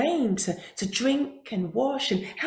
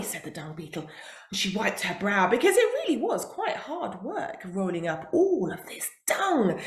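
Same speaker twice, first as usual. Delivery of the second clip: ordinary delivery, nothing marked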